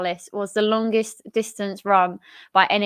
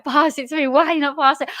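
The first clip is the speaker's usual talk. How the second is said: raised-pitch imitation of a player yelling; mock yell; 6 semitones higher than usual. Harrison yelling at Klitsch for a pass, mock yell. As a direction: imitate an exasperated yell for the ball. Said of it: "yelling at Klitsch".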